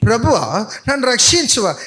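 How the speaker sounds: calmly recited, no panic in "ప్రభువా"; too smooth. Shown as a demonstration. Preacher mimicking a congregant's calm line. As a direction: say "నన్ను రక్షించవా" as if politely asking. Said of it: "ఎంత స్మూత్గా అన్నాడా?".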